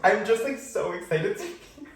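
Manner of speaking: high, teary voice breaking into laughter; overwhelmed, half laughing and half tearful; getting teary. Real, not acted. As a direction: laugh through real welling tears. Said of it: "I'm, like, getting teary".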